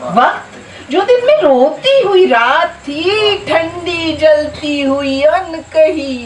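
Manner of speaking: slow, stretched verse endings; poetry recitation. Acted. Poet reciting verses on time to a gathering, drawn-out declamation.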